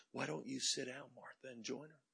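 soft, kindly coaxing; gentle invitation. Retold or imitated. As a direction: invite her quietly, trailing to very soft. Jesus gently invites Martha.

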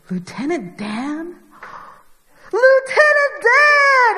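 slow unsure call building to loud high shout; hammed-up Forrest shouting across water. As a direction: call from the boat, growing to a yell.

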